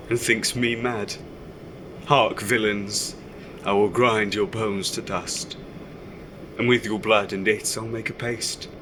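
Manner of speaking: lightly theatrical Shakespeare recitation; reciting Shakespeare. Acted. Son reading Shakespeare aloud at home, mildly theatrical. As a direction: declaim the villain's threats like a stage reading. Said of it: "every day with reading Shakespeare".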